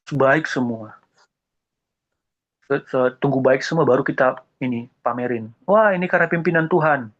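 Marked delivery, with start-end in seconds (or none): 5.7-7.1 mock pious boast. Mocking pious showing off.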